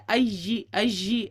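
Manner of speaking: ائی chewed hard between the teeth, the wrong way; wrong ya sound. Shown as a demonstration. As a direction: show the mistake: ائی pressed with the teeth. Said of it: "ایسے نہیں ہونا چاہیے". (دانتوں سے چبا کر غلط ادائیگی)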